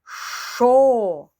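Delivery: Шо blended into one drawn-out syllable. Shown as a demonstration. Teacher showing children how the sounds blend into Шо. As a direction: merge the sounds into Шо. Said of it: "Скільки звуків ви назвали?".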